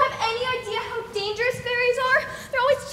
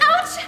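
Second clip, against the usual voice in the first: yelp; 8 semitones higher, 4 dB louder than usual. Acted. Otter being transformed.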